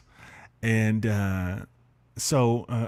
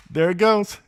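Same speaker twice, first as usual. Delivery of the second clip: higher, louder mock call-out; retold exclamation; 9 semitones higher, 8 dB louder than usual. Storyteller to audience, reliving the tree falling, exclaiming. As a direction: call it out as if watching it fall. Retells calling out as tree fell.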